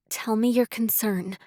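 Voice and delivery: steady soft voice. Acted. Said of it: "her voice stable and soft".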